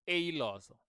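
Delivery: "eloso" opening on ay; wrong first vowel. Shown as a demonstration. Teacher repeating the warning to learners, ay vowel. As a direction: say "eloso" like ay-loso. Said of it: "Don't say eloso".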